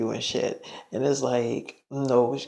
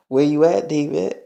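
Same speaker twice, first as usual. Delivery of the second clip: louder, pushy question; demanding call; 5 dB louder than usual. Retold or imitated. Demi on the phone to David, loudly demanding. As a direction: demand to know where he is.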